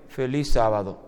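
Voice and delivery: low, dull mock greeting, a corpse-faced feliz sábado; a lifeless feliz sábado. Preacher mocking a glum church greeting, low and dull. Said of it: "con esa cara de cadáver".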